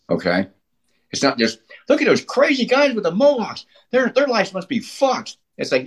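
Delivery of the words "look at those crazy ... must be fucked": judgmental onlooker. Acted. Voices onlookers judging punks.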